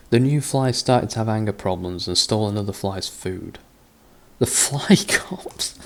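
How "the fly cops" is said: breathless whisper with a laugh in it; whispered disbelief. Real, not acted. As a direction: whisper it, half laughing at the absurd idea. Amused disbelief at story twist.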